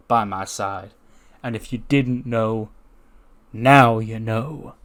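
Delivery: measured declarations with weighty pauses; assertive champion promo. Acted. Champion tells Matt Riddle he's no champion, assertive promo. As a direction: claim the title firmly, drawing out the final phrase.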